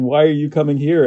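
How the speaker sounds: high, loud puzzled question; retold bafflement. Repeats the locals' surprised question.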